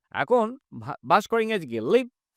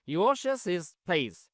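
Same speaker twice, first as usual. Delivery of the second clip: each word of "He lives in a small house" said very slowly and clearly; slow model reading; much slower than usual. Shown as a demonstration. Teacher to Bangla class, a very slow model sentence. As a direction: dictate it word by word to students. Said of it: "teacher repeats sentence slowly".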